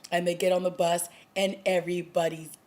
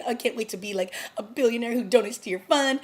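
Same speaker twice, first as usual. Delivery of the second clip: a little lift of mock giddy cheer; giddy and happy; 4 semitones higher, faster than usual. Recapping the donor scene, lightly giddy impression. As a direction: play him perky and delighted. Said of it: "like, giddy and happy".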